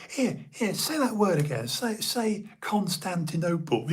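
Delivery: lightly mimicking a high-voiced pal; Steve's high-pitched voice. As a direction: goad a mate into saying it. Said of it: "quite high-pitched in a way".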